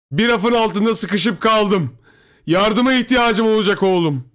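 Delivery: high, loud drawn-out cry for help; father shouting. A narrator's reading. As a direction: holler for help from afar. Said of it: "diye bağırdı babam". (uzaktan yardım için bağırarak)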